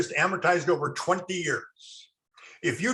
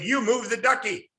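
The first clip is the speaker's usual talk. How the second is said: Texas drawl; 8 semitones higher than usual. Retold or imitated. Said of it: "He was from Texas. Ducky was like three syllables".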